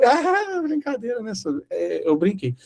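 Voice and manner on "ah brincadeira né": nervous laughing backtrack. Retold or imitated. Awkward backpedal after insult.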